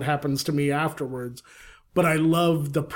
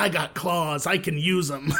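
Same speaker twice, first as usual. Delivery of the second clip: awful amateur toy voice, like a bad toy recording; 2 semitones higher than usual. Recalling old talking action-figure toys, imitating a bad Wolverine toy voice. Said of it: "they sounded terrible".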